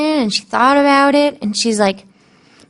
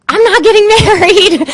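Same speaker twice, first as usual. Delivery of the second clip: laughing; 9 semitones higher, 5 dB louder than usual. Retold or imitated. Retold happy news, laughing.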